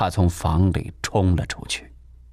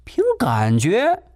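slow, high defiant answer; unyielding; 10 semitones higher, slower than usual. Acted. Landlady refusing to back down, slow and defiant. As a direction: draw it out defiantly. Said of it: "毫不退缩地说".

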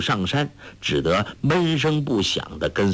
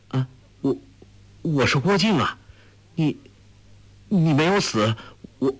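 halting, higher broken phrases; stunned stammer; 4 semitones higher than usual. A narrator's reading. Young man shocked his love is alive, stammering higher. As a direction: stumble over words in shock. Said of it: "郭靖一怔".

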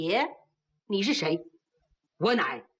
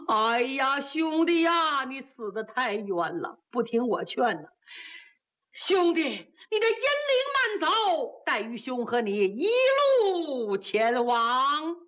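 mourning wail; slower than usual. Acted. 哭悼兄弟.

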